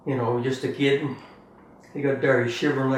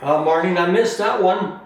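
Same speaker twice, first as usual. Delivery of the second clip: put-on child voice; 6 semitones higher, 5 dB louder than usual. Voicing the child asking.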